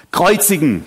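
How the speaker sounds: acted call demanding an execution; crowd calling out. Preacher voices crowd answering Pilatus, calling out. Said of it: "riefen sie".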